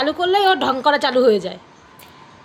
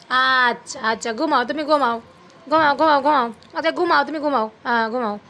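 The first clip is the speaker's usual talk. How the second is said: soothing lullaby tone; 2 semitones lower than usual. Real, not acted. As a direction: lull a pet to sleep gently. Lulling pet to sleep.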